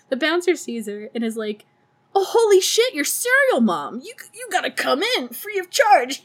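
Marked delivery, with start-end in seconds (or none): 2.1-6.2 high, loud fan gushing; starstruck excitement. Retold or imitated. Bouncer recognizing Serial Mom, starstruck excitement. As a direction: gush as if meeting a celebrity.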